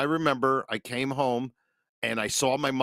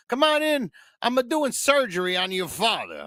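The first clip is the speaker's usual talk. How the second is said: high chirpy mother voice, much higher; mother's voice; 10 semitones higher than usual. Retold or imitated. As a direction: sweetly announce the surgery like mom. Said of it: "She goes".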